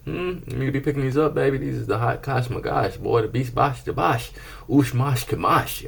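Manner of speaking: silly high voice. Acted.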